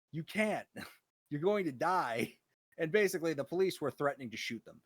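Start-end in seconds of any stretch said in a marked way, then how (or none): 0.1-2.3 louder, higher scolding with a laugh; half-laughing outrage at their stupidity; exasperated yell. Pretend. Scolding the infected family who wants to work, laughing outrage. Yelling at the Ebola spreaders.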